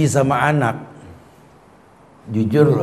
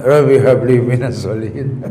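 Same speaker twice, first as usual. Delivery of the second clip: laughing prayer; 5 semitones lower than usual. Shown as a demonstration. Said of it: "Pesawat landing".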